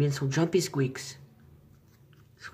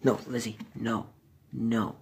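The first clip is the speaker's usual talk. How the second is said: firm scolding; 3 semitones lower, 4 dB louder, slower than usual. Real, not acted. Scolding pet chewing wire.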